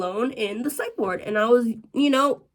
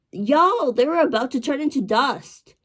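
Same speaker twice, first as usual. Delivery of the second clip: higher, louder exclamation to listeners; exaggerated disbelief; 5 semitones higher, 4 dB louder than usual. Real, not acted. Storyteller mocking ancient receptionists, exaggerated disbelief. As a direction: raise pitch and punch it for comic emphasis. Exclaiming at how old they were.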